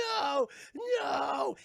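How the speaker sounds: high, loud imitation of a victim; two hammed-up cries of protest; mock pained yells. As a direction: cry out high, as if burning. Victim burned in the oven.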